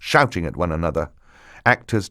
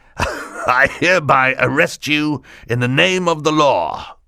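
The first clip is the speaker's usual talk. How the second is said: harsh, pitched-up, official-sounding tone; 5 semitones higher than usual. After coughing, Mister Poe takes Count Olaf's arm and announces in a harsh voice. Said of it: "announced in a harsh voice".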